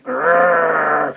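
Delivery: low, loud growl; bulldog growl. Acted. Bulldog in the bag, low loud growl. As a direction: growl like a dog in a sack.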